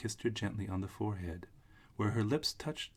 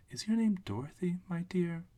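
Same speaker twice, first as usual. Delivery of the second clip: put-on little old witch; 10 semitones higher, 3 dB louder than usual. Witch figure, high voice.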